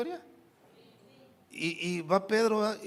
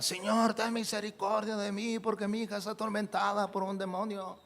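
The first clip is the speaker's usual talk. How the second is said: higher pitched plea, calling out; crying out; 6 semitones higher than usual. Shown as a demonstration. Canaanite mother begging Jesus to heal her daughter, crying out. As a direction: cry out to the Lord, begging. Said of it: "gritaba y daba voces".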